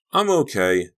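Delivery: put-on high, loud child's assurance; little boy. A narrator's reading. Donnie pops up after falling, high loud child voice. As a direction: pipe up as an unhurt kid. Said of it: "Donnie said".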